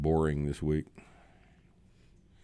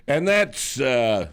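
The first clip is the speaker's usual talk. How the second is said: echoing segment title; 4 semitones higher, 4 dB louder, slower than usual. Pretend. Closes segment with echoed title.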